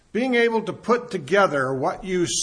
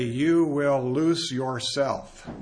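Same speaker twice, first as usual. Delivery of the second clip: slow demo; much slower than usual. Shown as a demonstration. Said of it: "if you're gonna say it in the middle".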